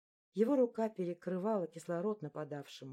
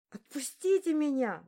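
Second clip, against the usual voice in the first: high, loud desperate plea; pleading cry; 9 semitones higher, 7 dB louder than usual. Acted. Beaten girl begging her attackers, high and loud. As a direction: beg them to let go, voice up high. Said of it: "взмолилась я".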